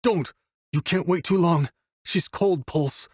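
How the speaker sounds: high-pitched, urgent plea; distraught protest. A narrator's reading. Wolf tells the doctor not to wait, distraught. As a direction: start on a sharp high cry, then keep pleading.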